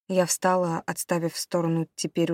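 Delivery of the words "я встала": plain reading voice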